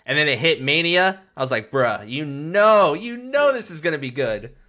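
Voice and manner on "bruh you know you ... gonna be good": slow, stretched-out retold reaction; drawn-out hype. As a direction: draw out the knowing hype, swooping on "know". Retells his hyped reaction to intro.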